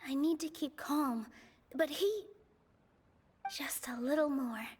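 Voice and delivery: steady yourself under your breath; calming herself. Real, not acted. She's reminding herself to keep calm, hushed whisper.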